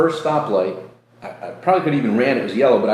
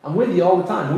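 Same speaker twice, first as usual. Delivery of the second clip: higher, gently voiced God; God's voice; 6 semitones higher than usual. God answering the speaker about being there all along, gently voiced. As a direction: say it as God would, lightly. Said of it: "He's like".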